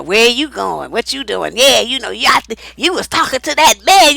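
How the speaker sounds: suspicious jealous man voice; jealous boyfriend. Retold or imitated. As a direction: grill her like a jealous boyfriend.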